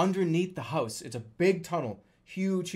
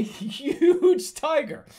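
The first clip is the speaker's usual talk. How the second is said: "huge" stretched long, high and loud; drawn-out emphasis; 12 semitones higher, 7 dB louder, much slower than usual. Real, not acted. Storyteller revealing the tiger on the wall, "huge" hugely stretched and high. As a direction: blow up the word "huge" slowly.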